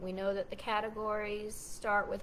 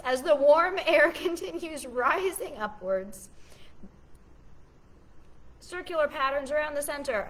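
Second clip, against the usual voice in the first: theatrical voice; 5 semitones higher, 6 dB louder than usual. Pretend. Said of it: "I'll read it for you guys in a theatrical voice".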